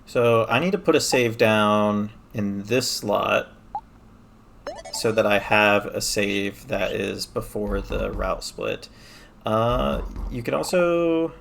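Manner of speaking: talking while brushing teeth; brushing with electric toothbrush. Real, not acted. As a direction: mouth full of toothbrush. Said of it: "I'm brushing my teeth".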